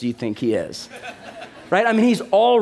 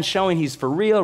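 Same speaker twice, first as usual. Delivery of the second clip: ordinary delivery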